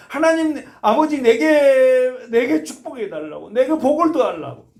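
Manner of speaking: 높고 크게 울부짖듯 간청; 복을 빼앗긴 형처럼 울며 매달리세요; 통곡하는 에서. Retold or imitated. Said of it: "엄청 웁니다". (설교자가 대성통곡하는 에서를 흉내 내며 높고 크게 울부짖음)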